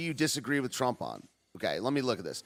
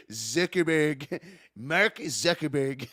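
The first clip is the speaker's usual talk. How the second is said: slow, lightly imitated rally pronunciation; Trump; slower than usual. Streamer savouring a rally quote, slow Trump impression. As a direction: draw the name out in mild mimicry. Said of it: "miss the way he said every word".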